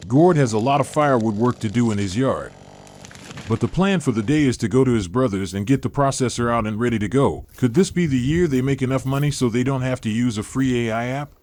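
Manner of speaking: flat synthetic narrator voice; robotic text-to-speech read. Real, not acted. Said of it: "how come you sound so robotic".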